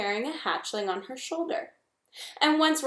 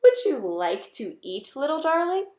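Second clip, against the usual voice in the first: friendliest voice; 5 semitones higher, 4 dB louder than usual. Acted. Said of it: "using her friendliest voice".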